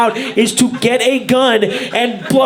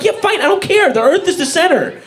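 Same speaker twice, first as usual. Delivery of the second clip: higher, breezy giving-up voice; mock careless Copernicus; 5 semitones higher than usual. Copernicus caving to the crowd, breezy and higher. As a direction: shrug it off to fit in. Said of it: "He should have just shut the fuck up and be like".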